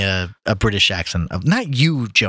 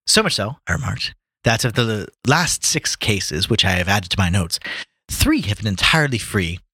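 British reading with a hint of Irish; attempted British accent, slipping Irish; 2 semitones lower than usual. Reading Watson as Jude Law, British accent slipping into Irish. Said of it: "That's a little Irish".

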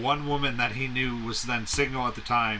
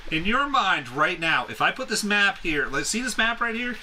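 higher, coaxing spy voice; playful spy; 6 semitones higher than usual. Pretend. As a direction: coax an answer in a high, innocent voice. Playing the spy in skit.

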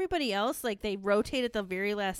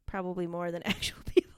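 a giggling whispered confession; whispered aside. Real, not acted. Co-host admits fictional crushes, giggling whisper. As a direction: whisper it with a laugh, half embarrassed.

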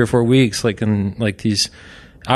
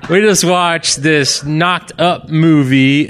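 high, slow mock wife voice; wife impression; 7 semitones higher, 4 dB louder, slower than usual. Husband imitating his wife on the phone to his friend. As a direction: do your wife, pitched up and drawn out. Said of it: "my wife's impression".

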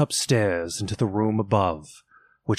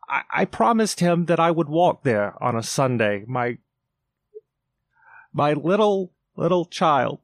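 cry of grief; 5 semitones higher than usual. A narrator's reading. Bob to his wife about Tiny Tim, breaking voice. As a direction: voice catching and breaking. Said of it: "cried Bob".

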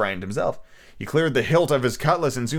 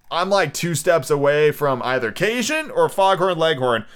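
between Cajun and Foghorn; 2 semitones higher, slower than usual. Acted. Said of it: "I like this voice".

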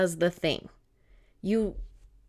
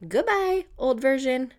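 breezy farewell; 3 semitones higher than usual. Acted.

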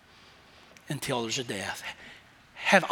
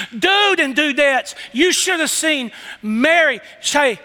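higher and slower, building excitement; same call, lifted higher; excited repeat; 5 semitones higher, slower than usual. Pretend. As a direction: say it again bigger. Preacher repeating the aside higher.

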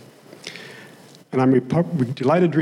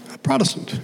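put-on young lady's voice; 13 semitones higher than usual. Preacher voicing the lady's reply, much higher, Oklahoma twang. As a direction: squeak the lady's answer up high, Oklahoma twang.

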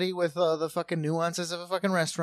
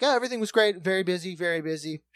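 mock reviewer voice; 2 semitones higher, 4 dB louder than usual. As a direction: play the smug reviewer, light and sing-song. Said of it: "And it was like".

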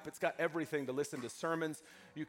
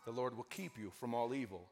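measured psalm reading with deliberate pauses; scripture reading; 3 semitones lower than usual. Acted. Pastor reads a psalm to the congregation, measured scripture reading. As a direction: read the psalm solemnly, line by line.

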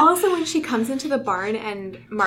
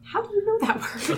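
high, incredulous question; surprised; 11 semitones higher than usual. Retold or imitated. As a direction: ask it baffled, pitched way up. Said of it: "And I was like".

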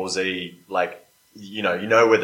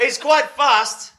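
dragon voice; 13 semitones higher, 5 dB louder, much slower than usual. Acted. Player voicing dragon character.

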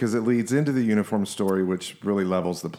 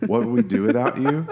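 teasing quote through a laugh; laughing mimic of the wife; laughing mock quote. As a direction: toss her words back, laughing. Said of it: "remember that part where you said".

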